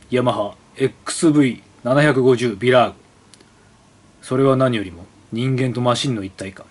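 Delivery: measured, showy ad narration; catalog ad read. Acted. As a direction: read it like a glossy brochure. Reads catalog copy aloud.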